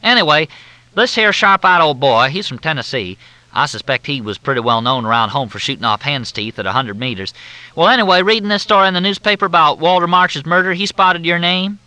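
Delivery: high, loud, syrupy Southern drawl; Southern officer on the phone, in a thick drawl. Acted. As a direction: drawl it out like a courteous Southern major. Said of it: "Again, it sounded like a question".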